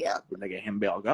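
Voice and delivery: mock French accent, hammed up. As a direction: say it like a bad Frenchman. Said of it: "his French accent is quite epic".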